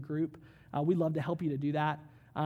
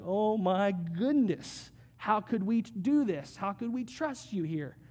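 mock panic; 2 semitones higher, slower than usual. Everyone around doubting God's call.

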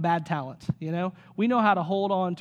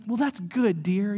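pastor voice; slower than usual. Retold or imitated. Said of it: "back to the pastor hat".

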